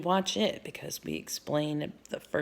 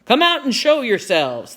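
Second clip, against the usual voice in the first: loud, raised-pitch order; commanding call; 7 semitones higher, 8 dB louder than usual. A narrator's reading. Captain to the hidden children, loud command. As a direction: order them out with force.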